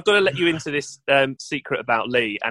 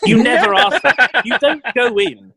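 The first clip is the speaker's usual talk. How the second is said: higher, louder mock outrage at the bank; mock indignant; 5 semitones higher, 3 dB louder than usual. Husband retells snapping at the bank clerk, mock indignant. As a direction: huff as if the bank insulted you. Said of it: "And I was like".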